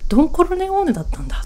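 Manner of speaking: "ドンコルネオーネ" jumps high and fast, stress on コ, falling end; playful shocked discovery; mock amazement. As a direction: gasp out the realisation in disbelief. ああ、うちって.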